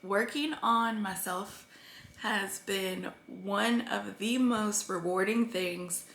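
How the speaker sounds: quietly moved, holding back tears; getting emotional. Real, not acted. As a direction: let the feeling catch in your throat. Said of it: "why am I getting emotional?".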